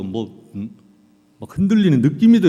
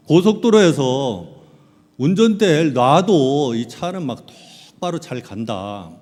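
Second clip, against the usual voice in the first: slow boast; 3 dB louder, slower than usual. Retold or imitated. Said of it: "제가 이렇게 시범을 보였어요".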